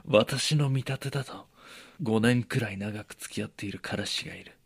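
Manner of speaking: lightly voiced knowing friend; mock friend voice. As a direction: play the know-it-all friend. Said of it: "言うでしょ".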